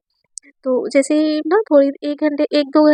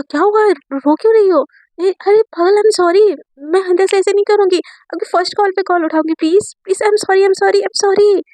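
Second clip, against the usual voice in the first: higher, louder rush of worried sorries; anxious apology; 5 semitones higher, 4 dB louder than usual. Acted. Raavi begging her crying friend's forgiveness, higher and louder. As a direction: plead and apologise in a panic.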